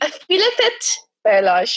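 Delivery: put-on "balayage" as "bala-yash" in a Jamaican accent. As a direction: say "balayage" Jamaican style, ending in sh. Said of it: "I said it like, that little mixed girl when she was doing that Jamaican accent".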